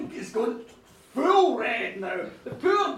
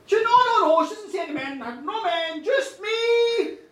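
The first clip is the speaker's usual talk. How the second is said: loud, high protest; acted indignant insistence; vehement denial; 5 semitones higher, 6 dB louder than usual. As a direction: protest loudly, rising on the last words. Woman protests about men.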